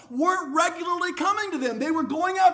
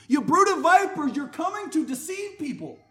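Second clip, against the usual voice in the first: bold rebuke; 3 semitones higher, 3 dB louder than usual. Retold or imitated. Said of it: "the audacity to say".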